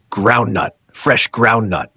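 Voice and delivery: a hint of a market hawker's cry; hawking wares. A narrator's reading. Novice hawker calling out his wares.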